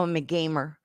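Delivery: dry sarcastic claim. Real, not acted. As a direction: say it like you don't mean it. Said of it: "I say that so sarcastically".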